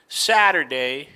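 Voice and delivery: Saturday with the T tapped like a quick R; flapped T. Shown as a demonstration. Teacher illustrating T between vowels, flapped T in Saturday. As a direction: tap the T in Saturday. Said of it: "a little like an R".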